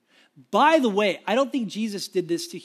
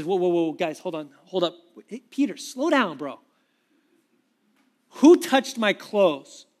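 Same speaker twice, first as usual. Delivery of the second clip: calling out to the crowd; 4 dB louder than usual. Retold or imitated. Jesus stops the crowd, calls.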